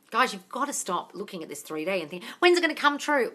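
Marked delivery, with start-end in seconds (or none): 2.4-3.3 high-pitched mimicked nagging; pitched-up mock pleading; mock impatience. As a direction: imitate an impatient follower.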